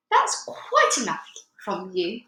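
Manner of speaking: slow, clipped-off rebuke from an embarrassed mother; stern rebuke. Acted. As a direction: shut her daughter down, slowly. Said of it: "Missus Wormwood said".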